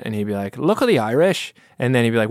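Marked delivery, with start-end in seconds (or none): 0.6-1.5 imitated bad Irish accent, pitched up; higher, sing-song mock Irish; stepdad's joke Irish accent. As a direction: put on a joke Irish lilt. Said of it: "I can do an Irish accent".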